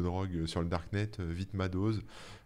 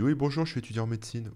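smooth, a bit higher sales pitch; slick used car salesman; 5 semitones higher, 4 dB louder than usual. Pretend. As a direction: sweet-talk your way in. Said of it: "Tu dis".

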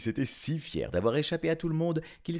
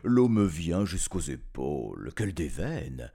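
fox exclaiming; 6 semitones lower than usual. Acted. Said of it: "le renard s'écria".

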